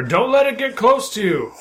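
high-pitched call from round a corner; yelled warning. Acted. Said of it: "I yell out from around the corner".

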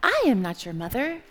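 a hint of storybook dog; lightly voiced dog. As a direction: answer as the dog, lightly acted. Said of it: "And the dog says".

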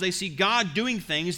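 ordinary talk

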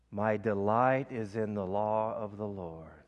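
slow, drawn-out prayer on one breath. Shown as a demonstration. Preacher leading the congregation in a slow breath prayer. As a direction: breathe the words out slowly. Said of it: "Let's do that whole prayer together".

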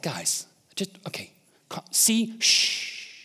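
1 calming whisper. Retold or imitated. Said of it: "he's like".

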